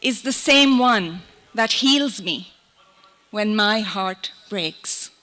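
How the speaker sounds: measured poem recital with long pauses between lines; poetry reading. Acted. Poet reads on being human to an audience, measured recital. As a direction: recite it line by line, letting each image settle.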